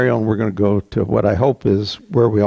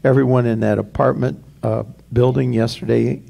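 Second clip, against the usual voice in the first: hushed, earnest prayer to the Lord; pastoral prayer. Acted. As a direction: pray reverently on behalf of the church. Pastor leads a congregational prayer.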